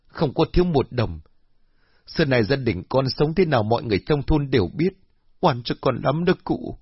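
high, tearful pleading; bursting into tears. Acted. Daughter weeping to the elder, high and tearful. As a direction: plead through tears, wronged. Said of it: "òa khóc".

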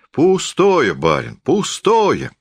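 high start, easing down drawn-out; good-natured. A narrator's reading. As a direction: dismiss it genially. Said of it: "сказал лесник благодушно". (благодушно, врастяжку)

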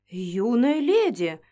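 slow, drawn-out surprised "Юная леди!" falling on "леди". Acted. Vector startled as the girl leans in, slow surprise. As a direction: caught off guard, stretch "Юная леди!". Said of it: "удивлённо начал он".

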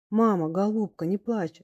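ordinary delivery

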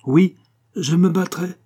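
high, loud vow to fight; heated acceptance. A narrator's reading. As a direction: accept the challenge with heat. Duke heatedly accepts the duel. (acceptation véhémente)

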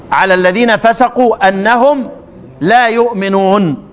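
slow, measured recitation; Quran recitation. Shown as a demonstration. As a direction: draw the verse out reverently. Recites the Yunus verse.

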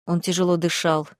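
usual speaking voice

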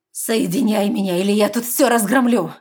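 loud, furious threat; angry demand. A narrator's reading. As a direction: demand it angrily. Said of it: "гневно выдала девушка".

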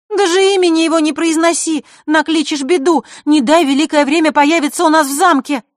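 loud, high, urgent warning; frightened warning. Acted. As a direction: hush her, afraid of bad luck.

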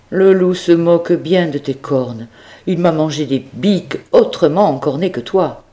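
put-on warning old farmer. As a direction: scare the goat about the wolf. Farmer warns goat about wolf. (monsieur Seguin qui met en garde, un peu plus aigu)

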